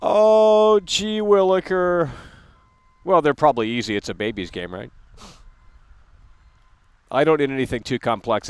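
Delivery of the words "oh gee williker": high, slow, fake wide-eyed wonder; mock gee-whiz. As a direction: play a wide-eyed kid amazed at puzzles. Mock excitement about puzzles.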